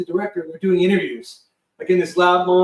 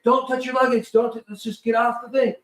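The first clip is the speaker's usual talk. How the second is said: raised, urgent orders; shouting crew orders; 6 semitones higher than usual. Retold or imitated. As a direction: bark the orders. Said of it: "they're like".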